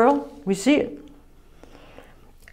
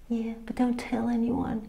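hushed, timid mock reply, much softer; sheepish mock answer; 14 dB quieter than usual. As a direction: shrink into a shy, embarrassed little voice. Mocking shy Christian answer.

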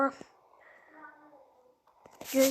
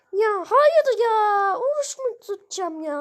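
whiny cry; 3 semitones higher, 4 dB louder than usual. Acted. Melon whines about fasting.

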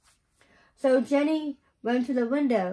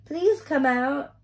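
slow, coaxing call; children calling to a shy girl; 5 semitones higher than usual. A narrator's reading. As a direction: draw it out to lure her outside. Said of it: "they called to the little girl".

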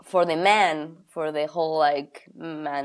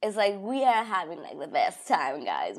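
playful stage voice. Shown as a demonstration. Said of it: "I think I'm using that voice".

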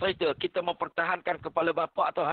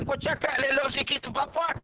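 warning; 7 semitones higher than usual. Retold or imitated. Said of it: "Saya kata".

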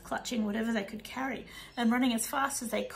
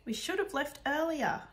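crying out; 5 semitones higher than usual. Acted. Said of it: "cried Mum".

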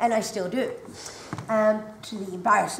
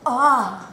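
short groan of pain; 6 dB louder than usual. Retold or imitated. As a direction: let a sudden pain escape on sitting. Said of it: "because otherwise you got".

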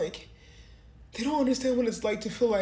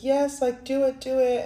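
retold eager cheer; 5 semitones higher, 4 dB louder than usual. Friend egging her on.

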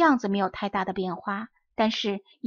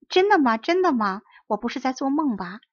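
overjoyed; 3 semitones higher, 4 dB louder than usual. Acted. Puppet overjoyed at news.

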